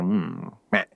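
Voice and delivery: low, grumpy goat grunt; suspicious low bleat; grumbling goat. Acted. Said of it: "squint at him ... they're like".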